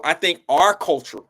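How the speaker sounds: talking around a retainer; words blurred by a retainer; wearing a retainer. Real, not acted. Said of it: "can't say that with my retainer in".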